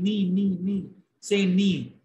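"Knee, knee, knee" said slowly over and over like a drill; repeating a syllable. Retold or imitated. Boy coaching a new friend on his name, repeating the syllable. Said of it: "he taught her how to pronounce".

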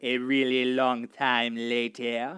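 deep narrator caption voice. Acted. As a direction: announce the time skip deep.

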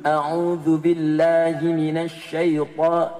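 A'udzu billahi minasy syaitha- dragged very slowly and loudly; labored, slow careful recitation; student's slow recitation. Retold or imitated. Old student struggles through A'udzu billahi, very slow and loud. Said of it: "udah dibetulkan".

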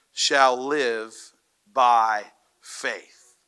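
slow, emphatic Bible reading; measured pulpit reading; scripture reading. Real, not acted. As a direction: read the verse out with deliberate weight and pauses. Reads scripture aloud to congregation.

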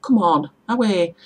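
"away" with no H, called out loud; Middlesbrough dialect. Shown as a demonstration. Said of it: "we say".

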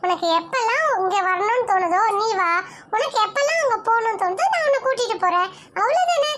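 laughing reassurance. Acted. Teasing two crying sisters.

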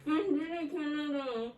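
muffled through tape over lips; mouth taped shut. Real, not acted. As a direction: talk with lips taped closed. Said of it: "ağzın bantlı".

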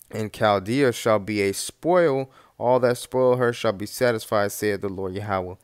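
booming Bible reading from the pulpit; scripture reading. Acted. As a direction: proclaim the verse like a preacher. Reads scripture aloud.

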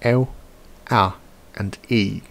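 three diphthongs, carefully sounded. Shown as a demonstration. Teacher demonstrating the three Old English diphthongs. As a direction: sound out each diphthong clearly. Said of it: "there's only three of them".

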